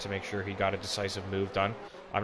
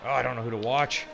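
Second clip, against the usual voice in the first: motorsport commentator; 4 semitones higher, 5 dB louder than usual. Real, not acted. Two battles at once.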